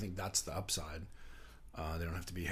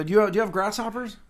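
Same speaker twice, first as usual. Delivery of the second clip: Muppet ordering voice; 12 semitones higher, 12 dB louder than usual. Retold or imitated. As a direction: order fries like a dopey Muppet. Muppet ordering at drive-thru.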